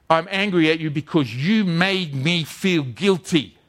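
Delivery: slow, emphatic mock accusation; retold anger. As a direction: lay the blame word by word, restrained. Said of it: "she was very angry".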